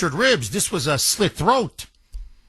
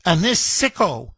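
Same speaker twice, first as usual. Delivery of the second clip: ordinary talk, nothing marked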